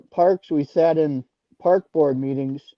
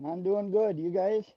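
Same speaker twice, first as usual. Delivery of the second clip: over the phone; 3 semitones higher, 8 dB quieter than usual. Real, not acted. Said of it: "I can barely hear you".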